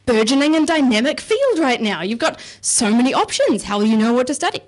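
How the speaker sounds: lightly hammed-up gushing awe; mock impressed. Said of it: "they'll be all like".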